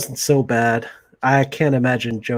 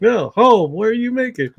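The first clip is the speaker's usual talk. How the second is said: squeaky insistent correction; high mock voice; 9 semitones higher, 3 dB louder, slower than usual. Correcting the misheard line in a high mock voice. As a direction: repeat the line much higher, insisting. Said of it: "He's like".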